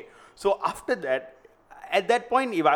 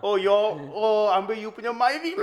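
stifled giggles; 4 semitones higher than usual. Pretend. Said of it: "dying of laughter already".

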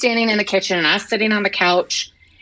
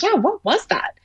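whisper; 10 semitones higher than usual. Retold or imitated. Neighbors ask about the noise.

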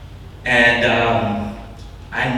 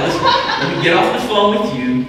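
laughing hurry; 4 semitones higher, 3 dB louder, faster than usual. Retold or imitated. Retold hurried reply, laughing.

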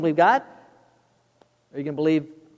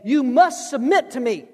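higher, mock-commanding husband; demanding husband; 5 semitones higher than usual. Husband could say it to his wife, demanding. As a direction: lay down the law as a husband. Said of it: "where a husband could say".

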